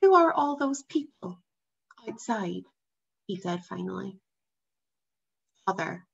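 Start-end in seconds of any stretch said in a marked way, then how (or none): 0.0-2.7 put-on boy's voice. A narrator's reading. Boy asking careful question.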